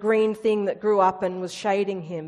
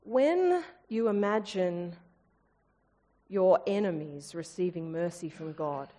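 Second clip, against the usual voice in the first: God's voice; 4 semitones lower, 8 dB quieter than usual. Acted. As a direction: speak as God, gently confronting. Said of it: "to say".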